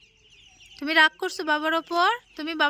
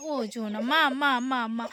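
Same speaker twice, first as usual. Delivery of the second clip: soothing; 6 semitones lower than usual. Real, not acted. Parent comforting the toddler after a fall, soothing. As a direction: hush a little one after a tumble.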